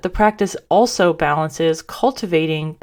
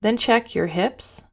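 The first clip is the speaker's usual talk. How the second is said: calm, even guidance with long pauses; guided meditation. Real, not acted. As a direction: gently lead listeners through breath and body.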